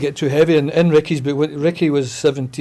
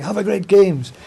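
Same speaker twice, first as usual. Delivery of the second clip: mock-cheery Have a great games, pitched higher; a light imitation of a chirpy volunteer beaming the greeting; jolly English greeter; 5 semitones higher, 3 dB louder than usual. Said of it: "happy, jolly English people".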